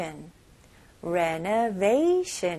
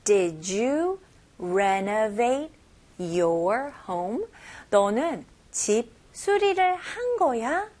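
slow chunks; slower than usual. Shown as a demonstration. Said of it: "repeats in chunks".

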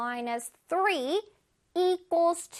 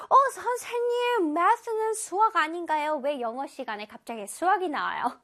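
의아해하는 학생. Acted. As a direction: play a student interrupting the teacher, puzzled. Acting a puzzled student's question. (의아해하며 묻는 학생 말투)

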